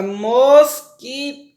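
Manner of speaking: "mosquito" in three separate beats; "mosquito" stretched, with gaps between syllables. Shown as a demonstration. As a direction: sound out "mosquito" as mos, qui, to. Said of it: "quando eu pronuncio a palavra mosquito".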